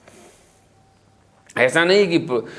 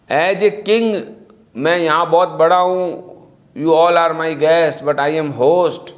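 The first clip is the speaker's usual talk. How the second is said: slow, lordly boast in English; mock arrogant king; much slower than usual. Preacher mimics a proud king lording over his guests, slowly. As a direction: play a haughty host king, drawing it out. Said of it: "ऐसा नहीं".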